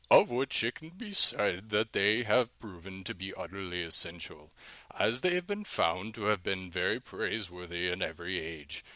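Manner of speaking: lightly voiced old man reading; a hint of an old man, reading aloud; old man Marazzo voice. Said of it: "read this in my old man Marazzo voice".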